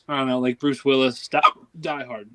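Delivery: words broken by hiccups. Real, not acted. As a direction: talk through the hiccups. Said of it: "Excuse me, I have hiccups".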